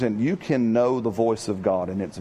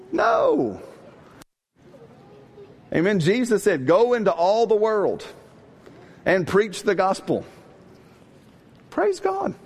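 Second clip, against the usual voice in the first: much higher, fervent preacher's cry; fiery preaching; 8 semitones higher than usual. Acted. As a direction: preach it hot to the crowd. Preaching builds to full force.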